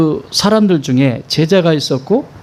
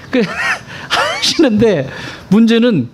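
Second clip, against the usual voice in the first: usual speaking voice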